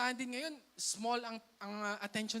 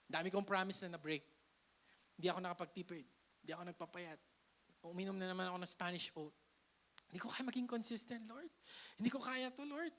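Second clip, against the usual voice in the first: softer, lower admission of failure; defeated confession; 3 semitones lower, 4 dB quieter, faster than usual. Acted. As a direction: confess it to the Lord as if giving up. Voicing a believer's confession to God.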